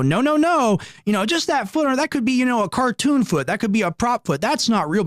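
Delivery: mock denial. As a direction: play the innocent one brushing off the foot. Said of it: "And they go".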